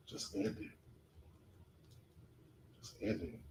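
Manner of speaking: hushed, insistent whisper; voice in his head. Retold or imitated. Inner voice urging him to give up, whispered. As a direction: whisper it like an intrusive thought. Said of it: "I hear some voices in my head".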